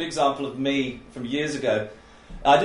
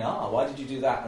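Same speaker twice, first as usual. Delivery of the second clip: gentle question; 3 dB quieter than usual. Shown as a demonstration. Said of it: "probably say this twice".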